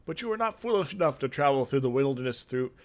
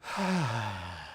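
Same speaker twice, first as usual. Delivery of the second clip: put-on weary old man's sigh; 4 semitones lower, 4 dB quieter than usual. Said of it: "the old man sighs".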